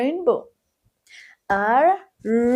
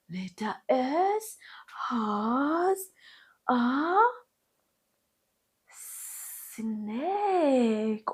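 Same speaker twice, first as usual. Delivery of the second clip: whispering; 6 dB quieter, slower than usual. Acted. Hushed build-up before the reveal.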